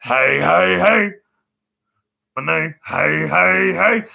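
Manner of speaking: big cartoon catchphrase, each hey climbing; drawn-out heys stepping up in pitch; Fat Albert. Shown as a demonstration. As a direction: boom it out like a cartoon kid. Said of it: "like what Fat Albert".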